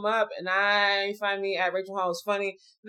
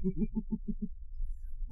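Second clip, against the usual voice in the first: breathy witch cackle; 9 dB quieter than usual. Real, not acted. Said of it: "That was my witch laugh".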